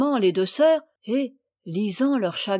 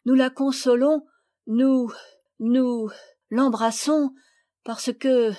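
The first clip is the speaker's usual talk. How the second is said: flustered stammer; 3 semitones higher, 4 dB louder, slower than usual. Acted. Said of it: "Elle rougit et se tut".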